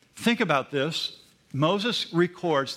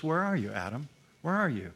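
soft, quieter questioning call; gentle call; 3 dB quieter than usual. Pretend. Preacher voicing God gently seeking hiding Adam, soft and tender. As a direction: call softly like a father looking for a child. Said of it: "He didn't scream at him. He just says".

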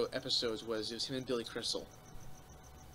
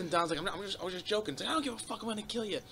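angry big guy; 8 semitones higher than usual. Retold or imitated. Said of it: "this big fucking guy comes up".

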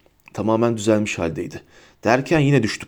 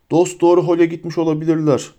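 harsh villain, pitched up a little; 4 semitones higher than usual. A narrator's reading. Death Eater hunting the escapees, harsh. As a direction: speak as a rough pursuer, mildly harsh. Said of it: "dedi haşin ses".

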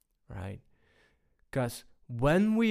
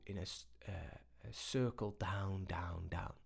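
sinking away; 4 semitones lower, 14 dB quieter than usual. Shown as a demonstration. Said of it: "voice sinking with the words".

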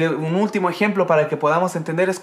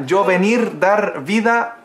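Tarzan-style broken Spanish; slower than usual. Retold or imitated. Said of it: "Como atarzanado".

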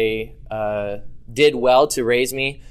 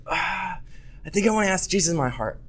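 fake crying; 5 semitones higher, 5 dB quieter, faster than usual. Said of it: "and I'm bawling my eyes out".

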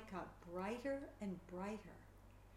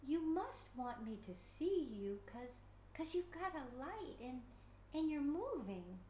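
put-on soft child voice; 5 semitones higher than usual. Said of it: "Alex spoke softly to".

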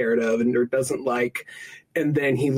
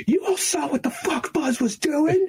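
put-on whiny kid voice.

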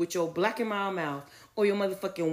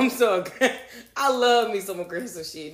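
laughing; 4 dB louder than usual. Real, not acted. Laughing at own confession.

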